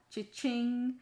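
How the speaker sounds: high, sing-out cha-ching; bright-pitched money sound; cash-register imitation. Shown as a demonstration. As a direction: ring it up like a till.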